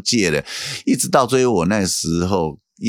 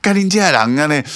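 retold Taiwanese cursing; 9 semitones higher, 3 dB louder than usual.

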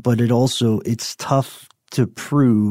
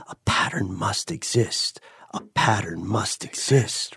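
quiet inner voice; 6 dB quieter than usual. Acted. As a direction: mutter it like a voice in your head. Voicing the inner voice.

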